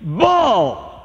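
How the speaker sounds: a lightly voiced woman heckling from the crowd; heckling woman's call. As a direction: call it out from the audience, mock-scornful. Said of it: "a female voice".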